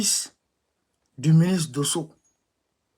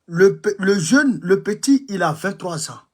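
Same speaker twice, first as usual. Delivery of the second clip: loud indignant cry; outraged shout; 4 semitones higher, 7 dB louder than usual. Real, not acted. Outraged about the young son.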